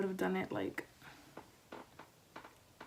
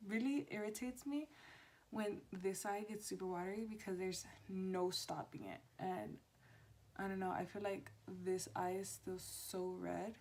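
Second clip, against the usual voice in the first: soft, hushed talk; quiet at night; 10 dB quieter than usual. Real, not acted. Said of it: "talking a lot lower than I usually do".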